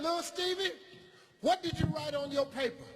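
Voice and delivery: a sweetly high schoolteacher asking; teacher voice. Retold or imitated.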